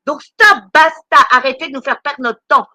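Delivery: exaspérée, plus fort, attaque haute; vrai coup de gueule. Real, not acted. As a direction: coupe court avec une vraie colère. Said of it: "excusez-moi de mon coup de gueule". (ras-le-bol lancé avec force)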